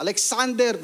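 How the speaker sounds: mildly cross full-name call, high; angry mother's call. Retold or imitated. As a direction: imitate Mom calling out the whole name crossly. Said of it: "pag galit, ano, buong pangalan". (gayang galit na tawag ng nanay)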